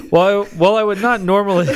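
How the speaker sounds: dragon voice. Acted. Rushed re-read of the letter.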